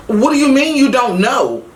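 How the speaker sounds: high, panicked cry of disbelief; a mother's voice jumping up in fear; frantic disbelief. Retold or imitated. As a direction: demand it in sheer panic. Frantic mother, son missing.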